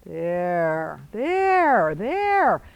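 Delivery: calling out. Real, not acted. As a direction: call it across the arena. Coach calling out to rider.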